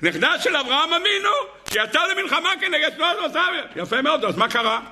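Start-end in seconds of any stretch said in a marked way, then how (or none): 0.0-3.8 high, laughing imitation of an old woman; laughing high granny voice mocking her pride; mocking old lady. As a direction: send up the granny's boast with a laugh. Mocking the grandmother's claim.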